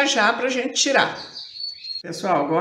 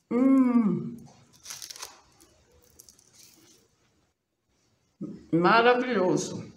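mouth full; 3 semitones higher, slower than usual. Real, not acted. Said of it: "Tô até falando com a boca cheia".

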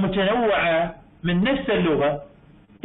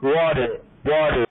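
British accent demo; 5 semitones lower, much slower than usual. Shown as a demonstration. Teacher showing students how the British say water, slow British accent. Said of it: "أكو لهجات يسمي water".

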